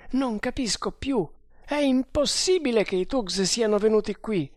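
high, agitated protest; bewildered disbelief. A narrator's reading. Guard doubts the captive's account, in disbelief. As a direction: protest that it cannot be so.

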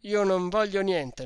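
loud firm refusal, stress on voglio; emphatic loud refusal; resolute refusal. A narrator's reading. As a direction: bark "Io non voglio niente" with voglio hit hard. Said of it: "proferito con una tale risoluzione".

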